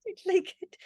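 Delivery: tiny high-pitched apologetic voice, played up; mock very nice. Wife gently telling husband she dislikes his shop idea, very nicely. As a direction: object ever so nicely in a squeaky-high little voice. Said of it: "I wanted to very nicely say".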